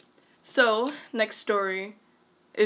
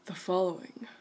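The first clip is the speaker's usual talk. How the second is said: slightly lowered title announcement; deep voice; 2 semitones lower than usual. Pretend. Reader announcing the next story title, deep voice. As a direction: drop the voice a little for a mock-ominous title. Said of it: "That was a really deep voice".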